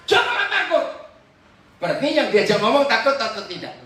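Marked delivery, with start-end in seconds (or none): 0.1-0.9 bold reassurance. Shown as a demonstration. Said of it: "Oke, lanjut".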